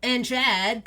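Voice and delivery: high, loud welcome; jolly wolf dad. Acted. Big Dad welcoming guests.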